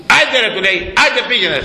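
slap him on the back with your voice; hearty go on. Retold or imitated. Paisios blesses and sends him.

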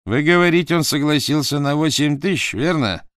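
high, loud eager questioning; eager rough young man. Acted. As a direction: press for the money eagerly. Dot questions the buyer.

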